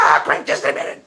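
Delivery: breathy whispered mock of a gloating atheist; whispered atheist imitation. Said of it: "That's my atheist imitation".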